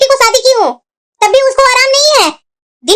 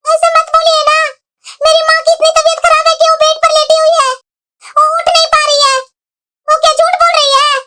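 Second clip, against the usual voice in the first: higher-pitched, hurt pleading; upset protest; 4 semitones higher than usual. Acted. Wife defending her sick mother to husband, upset.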